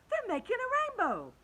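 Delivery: high, loud cry of wonder; excited cry. A narrator's reading. Travellers watching the cloud men, excited cry. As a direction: exclaim in awe.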